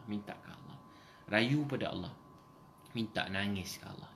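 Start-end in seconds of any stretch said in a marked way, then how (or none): 0.0-0.8 whisper. Real, not acted. Preacher softly urging prayer.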